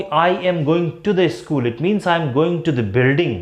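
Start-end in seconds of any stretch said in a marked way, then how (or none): 0.0-1.7 the said clearly, whole sentence very slow; slow example with the. Shown as a demonstration. Teacher contrasting with the school, very slow. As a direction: lean on the in to the school. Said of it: "अगर मैं ये कहूँ कि".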